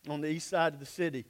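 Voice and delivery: ordinary delivery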